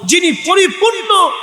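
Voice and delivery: impassioned sermon, punching key words; full-force preaching. Real, not acted. Preacher recounting Imam Husain's patience at Karbala, forceful preaching. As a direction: hammer out each clause to the crowd.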